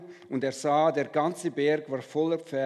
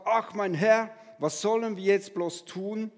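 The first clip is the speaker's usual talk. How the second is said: panicked cry; 5 semitones higher than usual. Acted. The servant sees the army and cries to Elisa, alarmed. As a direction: cry out in dismay. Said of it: "Rief er".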